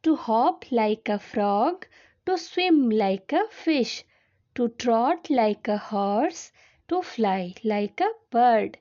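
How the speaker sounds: very slow, word-by-word poem recitation; poem reading. Acted. Teacher reads a poem to class two children, slow recitation. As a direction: read the verse out slowly for young learners.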